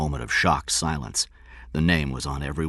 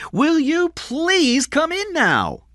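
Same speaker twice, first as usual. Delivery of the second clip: high, slow, stretched-out call; mother calling her child indoors; 5 dB louder, much slower than usual. A narrator's reading. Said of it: "Diane called".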